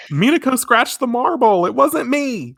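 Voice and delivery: high, panicky blame-shifting squeal; frantic Usagi. Retold or imitated. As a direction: rat out your friend in a high squeal. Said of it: "Usagi's like".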